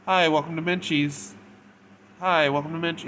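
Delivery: high, loud customer-service chirp; over-bright fake retail greeting; fake happy. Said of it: "when you're fake happy".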